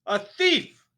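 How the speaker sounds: very high, very loud scream; shrieking headmistress; screamed accusation. A narrator's reading. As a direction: scream it at him. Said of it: "the Trunchbull screamed".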